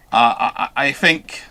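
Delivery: normal talking voice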